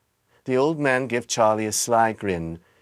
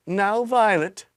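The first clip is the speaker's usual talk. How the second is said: scolding mother; 10 semitones higher, 3 dB louder, slower than usual. Acted. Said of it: "Missus Beauregard said".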